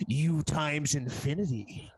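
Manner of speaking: smug comeback. Acted. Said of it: "I'm legit gonna respond".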